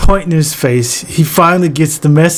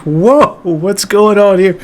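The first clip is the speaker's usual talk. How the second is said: put-on amazed kid; 5 semitones higher than usual. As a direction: gasp it out, wide-eyed. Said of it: "I'm like".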